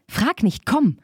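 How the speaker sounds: high, drawn-out urging call; sing-out exclamation, slowing and rising high; eager calling out. A narrator's reading. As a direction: urge them on in a high, stretched voice. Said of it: "rief Babe".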